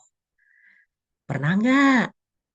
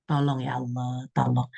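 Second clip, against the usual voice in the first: soft prayer; 4 semitones lower, 4 dB quieter than usual. Pretend. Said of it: "kita bisa berdoa terlebih dahulu".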